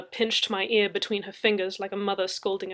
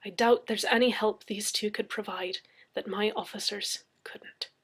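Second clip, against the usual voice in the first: stiff. Acted. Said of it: "Murphy said stiffly".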